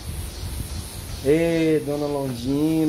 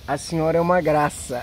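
elogio rindo; rindo enquanto fala. Real, not acted. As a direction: falar entre risos. Elogio entre risadas. (rindo enquanto fala)

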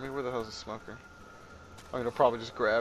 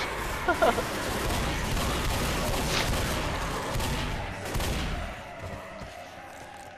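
long breathy laugh; 6 semitones lower than usual. Real, not acted.

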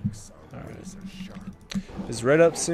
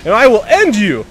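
mock threat. Trash talk to enemy champion.

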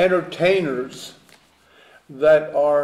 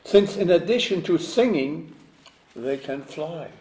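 measured poem reading, pauses between phrases; poem recitation. Acted. Reads own poem aloud.

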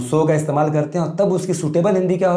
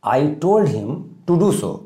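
slow dictation; much slower than usual. Shown as a demonstration. Teacher dictating model sentence.

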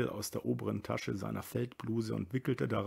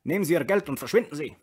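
fast, higher-pitched rasping order; rasping dismissal; 7 semitones higher, 7 dB louder, much faster than usual. A narrator's reading. Brüller sends the soldier away, rasping. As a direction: rasp it out and send him packing. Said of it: "schnarrte der Brüller".

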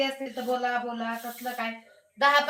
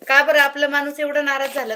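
loud teasing question; 2 semitones higher, 7 dB louder than usual. Real, not acted. Teasing a silent viewer.

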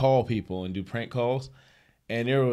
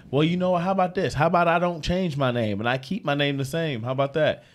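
higher, defiant sass; sassy retort; 5 semitones higher than usual. Retold or imitated. Woman defying prank caller about name, high sassy. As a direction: throw it back with defiance. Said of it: "she goes".

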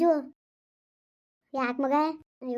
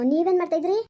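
sharp demand; 4 semitones higher, 4 dB louder than usual. Acted. Family quarrel over phone call.

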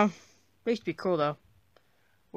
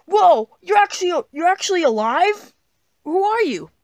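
high-pitched startled disbelief; amazed, rising outburst; astonished; 9 semitones higher, 5 dB louder than usual. Acted. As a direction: react in shock, voice jumping up. Imaginary friend suddenly comes alive.

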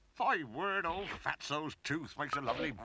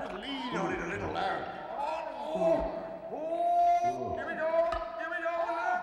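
at the dentist; 13 semitones higher than usual. Acted. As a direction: heave and strain while pulling. Pulling a tooth, straining.

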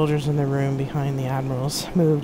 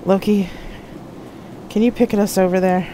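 rough voice; 5 semitones higher than usual. A narrator's reading. Jack asking Loki to picket them over, rough-voiced. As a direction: push it out with a touch of roughness. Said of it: "his voice rough".

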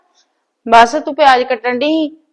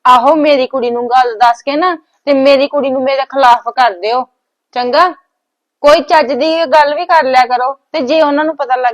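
louder, sarcastic pushback; angry retort; 2 semitones higher, 7 dB louder than usual. Acted. Wife louder and sarcastic as she rejects her husband's plan. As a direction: snap back at him hard.

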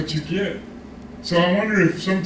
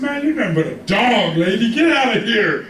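scornful dismissal; 3 semitones higher than usual. Acted. Pastor imagines insulting a woman in church, mock-scornful. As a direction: send someone away with hammed-up contempt.

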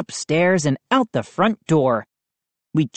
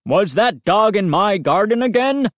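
stern, lightly voiced big man; Mister McCall demanding; 4 semitones higher than usual. A narrator's reading. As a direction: demand an answer coldly. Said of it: "Mister McCall demanded".

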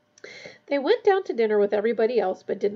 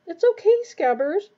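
high-pitched reassurance to a pet; bright-pitched, coaxing comfort; soothing; 8 semitones higher, 6 dB louder than usual. A narrator's reading. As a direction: coo to calm a frightened animal. Ron soothes his frightened rat.

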